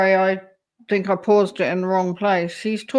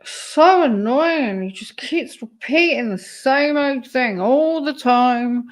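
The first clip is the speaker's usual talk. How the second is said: higher and drawn out, fed up with him; exasperated complaint; 5 semitones higher, 3 dB louder, slower than usual. Real, not acted. Streamer complaining to chat about the video, drawn-out exasperation. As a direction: sigh it out like you've heard it a hundred times.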